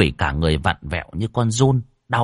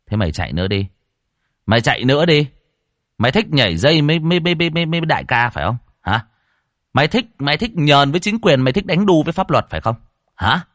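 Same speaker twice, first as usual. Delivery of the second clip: louder, higher, fast mocking taunt; 6 semitones higher, 4 dB louder, much faster than usual. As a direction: rub it in, jeering. Exorcist taunts the ghost.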